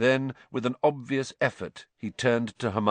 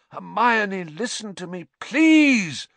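louder, higher pleading shout; 10 semitones higher, 6 dB louder, slower than usual. A narrator's reading. Lupin shouts to calm Hermione, loud and higher. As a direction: shout over her to be heard. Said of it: "Lupin shouted".

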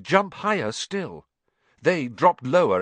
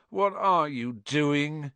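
moaning; 2 semitones higher, much slower than usual. Acted. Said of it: "moaned Ron".

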